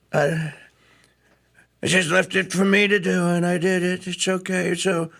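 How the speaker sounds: a hint of a boastful Trump rambling; Trump impression. Host imitating Trump bragging to his viewers, lightly done. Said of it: "He went".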